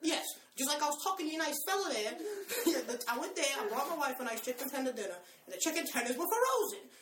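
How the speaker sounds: Joe Pesci voice. Retold or imitated. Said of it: "the Joe Pesci voice".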